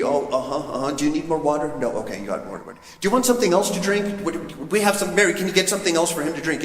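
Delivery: a fussing hostess, lightly voiced; fussy hostess. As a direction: flit about offering drinks. Host fussing over a guest.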